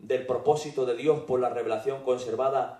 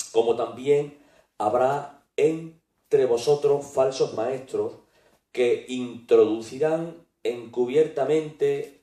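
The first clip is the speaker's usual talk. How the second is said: scripture reading; 3 dB louder than usual. Acted. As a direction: read the verses out deliberately and firmly, in weighty phrases. Reads scripture aloud. (lectura bíblica solemne y pausada)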